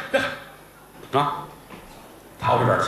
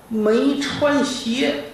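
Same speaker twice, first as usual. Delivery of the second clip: suspense build; 11 semitones higher, 3 dB louder, slower than usual. A narrator's reading. Boss creeps up barefoot, suspense.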